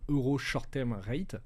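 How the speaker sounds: slow English with a heavy French accent; strong French accent. Shown as a demonstration. Explaining the €STR rate to his co-host, in a thick French accent. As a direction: spell out the English name slowly, in a very French accent. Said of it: "je vais le faire avec mon accent très français".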